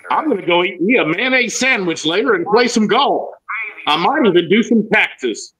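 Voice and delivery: exaggerated American accent with bouncing tune; American accent practice. Shown as a demonstration. Coach giving sample sentences to practise, American accent. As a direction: lay the American accent on in singsong. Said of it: "this is how you work on it".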